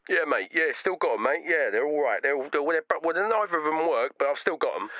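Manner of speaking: a hint of a clueless seller; dim seller. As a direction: shrug it off. Seller lad on the phone.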